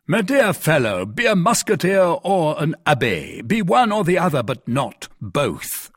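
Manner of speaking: exasperated lecture to a friend; admonishing. Acted. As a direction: lay down the choice firmly. Porthos lectures Aramis to choose.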